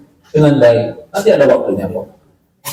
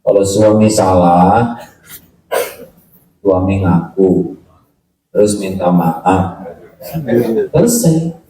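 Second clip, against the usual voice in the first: slow reading; 8 semitones lower than usual. Retold or imitated. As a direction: read slowly and low. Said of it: "tulisan dari seorang bapak-bapak". (membaca pelan dan rendah)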